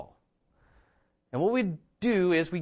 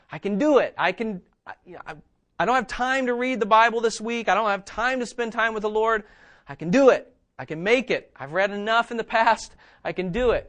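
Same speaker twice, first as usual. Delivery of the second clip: louder, higher, brushing it off; cocky self-reliance; 5 semitones higher, 5 dB louder than usual. Pretend. A believer skipping time with the Lord, cocky and loud. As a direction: sound sure you need no help.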